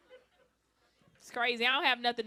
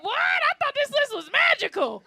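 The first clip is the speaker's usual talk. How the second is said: much higher, louder incredulous shout; shocked disbelief; 9 dB louder than usual. Retold or imitated. To her friend about the magic list, shocked high shout. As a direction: squawk in outraged disbelief. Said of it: "I was like".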